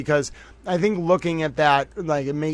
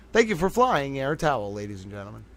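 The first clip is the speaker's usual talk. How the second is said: mock flight announcer; 5 dB quieter than usual. Mock airline announcement to viewers.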